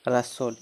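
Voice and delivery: "रसोड" with r running straight into the vowel; silent H. Shown as a demonstration. Teacher answers own question to pupils, "रसोड" with silent H. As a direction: repeat "रसोड" without any h. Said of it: "इसमें एच का उच्चारण नहीं होगा".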